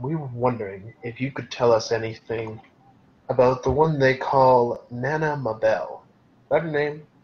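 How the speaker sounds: hushed, close, leaning-in whisper. Player leans in to ask a woman a question, whispering. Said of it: "I'll lean in and kind of whisper to her".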